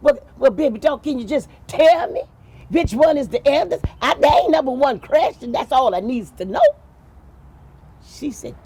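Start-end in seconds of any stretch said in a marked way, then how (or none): 0.0-6.6 pleading. Acted. King pleads nervously.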